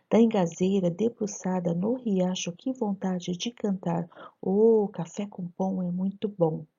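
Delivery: chugging rhythmic poem reading; train rhythm reading. Shown as a demonstration. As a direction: read it like a train clattering along. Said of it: "Vamos ler esse poema". (leitura imitando o ritmo do trem)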